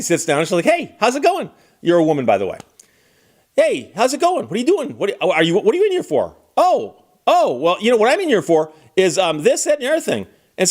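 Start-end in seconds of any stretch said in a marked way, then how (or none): 0.6-1.5 much higher, bubbly fake-friendly voice; chatty cellmate. Snitch cellmate greeting the arrested woman, high and chirpy. 3.6-6.4 much higher, bubbly fake-friendly voice; chatty cellmate. Snitch cellmate greeting the arrested woman, high and chirpy. 6.6-10.3 high, rambling mock-casual chatter; chatty cellmate. Snitch rambling to the silent woman, higher and breezy.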